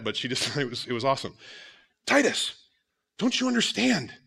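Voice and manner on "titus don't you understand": put-on high, loud, bossy kid voice with a laugh; mock little girl reassuring her scared brother, laughing; imitated little girl. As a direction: play the big sister lecturing her brother. Voicing daughter scolding scared brother.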